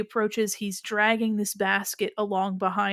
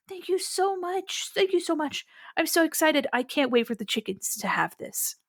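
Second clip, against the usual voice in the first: excited little guy; 7 semitones higher than usual. Acted. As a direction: gush with thanks like a small kid. Little guy thrilled with egg.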